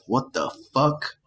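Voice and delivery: drawn-out, questioning mock outrage; mock indignation. Imitating the knife-puller's reaction to the man, mock indignant. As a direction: stretch it out slowly, rising at the end.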